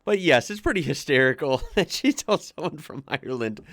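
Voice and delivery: laughing through the words; tickled, laughing mid-sentence; amused. Real, not acted. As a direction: let a real chuckle break into the line. Laughs at the told anecdote.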